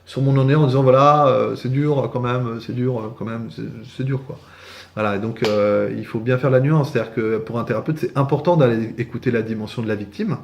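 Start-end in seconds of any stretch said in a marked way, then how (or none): 0.8-4.4 drawn-out resigned lament, sinking away; self-pitying victim. Acted. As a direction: settle into feeling sorry for yourself. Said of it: "je m'installais dans mon ornière".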